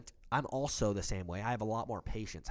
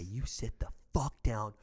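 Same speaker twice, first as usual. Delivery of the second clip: retold threat; slower than usual. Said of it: "and I say".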